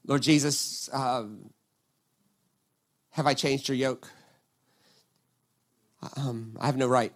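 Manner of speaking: soft, quiet demo prayer; quiet humble prayer spoken aside; hushed prayer. Shown as a demonstration. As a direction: pray it gently and low. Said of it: "maybe we should pray a prayer, something like this".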